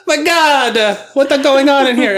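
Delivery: high, gasping mock panic; gasp, then cry out high in shock; acted alarm. Cardinals bursting in on the fit, high-pitched alarm.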